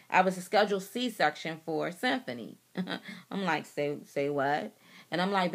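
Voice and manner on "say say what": low, slow double take; incredulous. Retold or imitated. Wife reacting to husband ending things, incredulous. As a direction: drag it out low in disbelief. Retelling her shocked reply.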